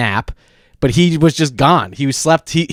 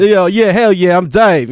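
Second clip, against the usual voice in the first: raised-pitch impression of roommate's Black American speech; imitated Black American speech; 5 semitones higher than usual. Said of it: "So his voice is like".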